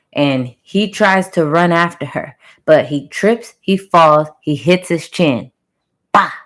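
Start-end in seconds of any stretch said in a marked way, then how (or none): 6.1-6.3 imitated impact noise. Imitates the chin hitting the floor.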